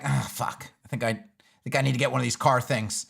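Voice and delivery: low, deflated imitation of reluctant horse riders; mock grudging resignation. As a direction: give in with a low grumble, playfully. Voicing horse riders seeing a car.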